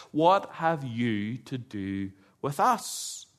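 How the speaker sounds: sinister demon voice, slowed right down; demon's question. Acted. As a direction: drag it out low and eerie, a demon confronting Jesus. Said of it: "as the demon asks".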